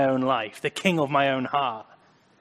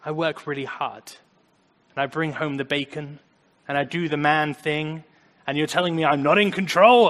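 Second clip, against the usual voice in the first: frustrated man; 6 dB louder than usual. Retold or imitated. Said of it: "when you think".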